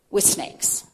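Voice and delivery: hushed, voiceless, recoiling from snakes; disgusted whisper. Real, not acted. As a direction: breathe the words out with a shudder of disgust.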